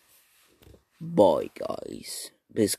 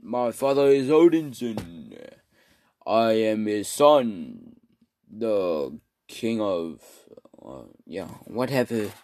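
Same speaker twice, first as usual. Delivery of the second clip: lightly acted British-accented hero, stately and declaiming; hammed-up British film-hero impression; Thor. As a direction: proudly announce a royal lineage in mock British. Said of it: "So he's like".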